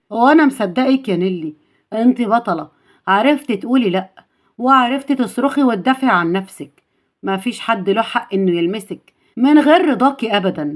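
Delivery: calm comfort, mildly acted; settled voice soothing a scared girl; reassuring. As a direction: gently affirm and reassure her. Hero comforts frightened girl.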